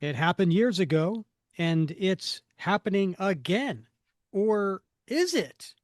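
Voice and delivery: mysterious comic-book narrator; dramatic caption reading. A narrator's reading. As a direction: read it like a teaser, rising on the question.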